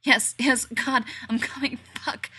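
loud high climax cries; crying out. Acted. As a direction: cry out, losing control.

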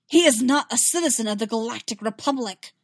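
sharp, contemptuous retort; spat. Acted. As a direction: spit the words at him. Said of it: "Amidala spat".

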